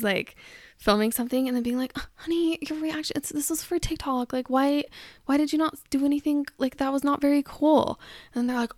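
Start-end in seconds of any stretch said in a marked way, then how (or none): 2.0-8.0 a hint of a wife chiding her husband over the take; wife scolding her husband for ruining the TikTok, higher voice; mock annoyed wife.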